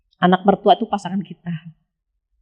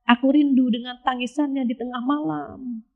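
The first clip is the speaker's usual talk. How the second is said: softer, tender yearning; tender longing; 2 semitones higher, 6 dB quieter than usual. Retold or imitated. Voicing God's reply to mothers, softly tender. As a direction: say it gently, like missing someone. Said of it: "Apa jawaban Allah?".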